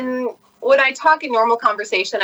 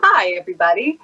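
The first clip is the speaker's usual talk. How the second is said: even-keeled voiceover greeting; controlled, neutral announcer hello; 2 semitones lower than usual. Shown as a demonstration. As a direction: greet them like a measured voiceover artist. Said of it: "I try to be very even-keeled".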